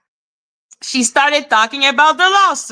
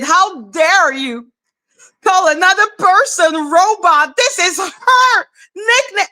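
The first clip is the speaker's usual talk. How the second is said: imitating her outrage, rising higher as it goes; mock offended; 5 semitones higher than usual. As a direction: play up the indignant protest. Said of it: "Danny was so offended".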